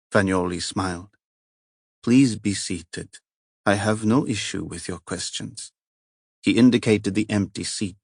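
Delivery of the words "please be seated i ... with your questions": put-on an Italian cardinal, calm and at ease, a light accent; heavy Italian accent. Italian cardinal greets the inspector, lightly Italian-accented. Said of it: "Moran took in the heavy accent".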